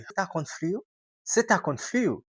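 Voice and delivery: quoting a Brazilian friend casually; reduced você tá. Retold or imitated. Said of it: "Et puis, il dit". (brasileiro falando "se tá com frio")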